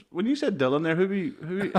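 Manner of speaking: high-pitched, faltering imitation of stunned comedians; tentative amazed question. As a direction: stumble upward into an incredulous question. Comedians nervously asking who is coming.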